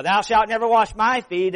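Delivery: emphatic quote. Retold or imitated. Preacher voicing Peter's refusal.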